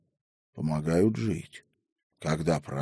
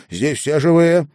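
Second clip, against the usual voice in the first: loud, higher sharp retort; raised voice; 8 semitones higher, 6 dB louder than usual. A narrator's reading. Headwoman overrules the frightened grandmother, raised voice. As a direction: raise your voice to cut her off. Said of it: "повысила голос Беломестова".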